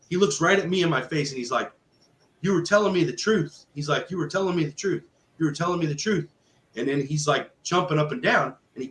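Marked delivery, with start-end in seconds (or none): 2.4-3.7 high-pitched, elated realization; amazed exclamation. Retold or imitated. Amazed man jumping after baptism. 4.1-6.3 high-pitched, elated realization; amazed exclamation. Retold or imitated. Amazed man repeats it, jumping.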